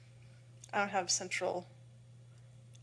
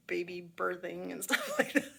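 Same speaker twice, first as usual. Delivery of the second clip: laughing whisper; 2 semitones lower, 4 dB quieter than usual. Real, not acted.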